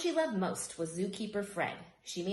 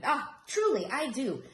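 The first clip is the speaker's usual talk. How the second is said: high, loud, eager reassurance; hooting delight; 6 semitones higher, 6 dB louder than usual. Acted. Uncle Fred insists he loves the hat, high hooting voice. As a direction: hoot it out, overdoing the praise. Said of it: "Fred hooted".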